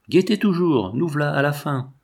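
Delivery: shepherd driving the farmer to look, urgently; urgent command. Acted. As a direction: push hard, the end is near. Shepherd pressing at the climax.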